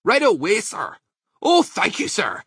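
high, eager little voice; small badger. A narrator's reading. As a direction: chirp obedient thanks in a small high voice. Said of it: "said the small badger".

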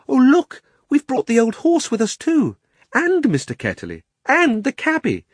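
put-on high, loud excited girl's cry. A narrator's reading. Polly discovering the horse came along too, crying out. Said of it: "Polly cried out".

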